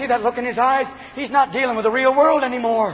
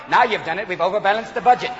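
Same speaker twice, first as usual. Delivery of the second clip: lightly voiced comedy double act; Stan and Ollie. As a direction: scold your bumbling partner, mildly. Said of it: "kinda like Stan and Ollie".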